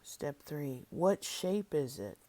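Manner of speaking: measured step-by-step prompts with long silences between; guided imagery reading. Acted. Leader guiding listeners through an inner peace process, deliberate instructional reading. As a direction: read each prompt out clearly, then leave room to feel.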